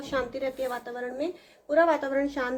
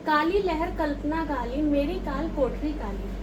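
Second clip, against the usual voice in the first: slow poem recitation. Shown as a demonstration. Teacher recites poem lines.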